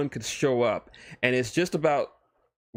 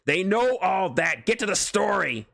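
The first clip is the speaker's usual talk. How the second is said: impatient Deadpool; 8 semitones higher than usual. Acted. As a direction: cut the narrator off. Deadpool heckles narration.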